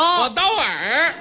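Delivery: slow. Shown as a demonstration. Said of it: "颠倒过来说".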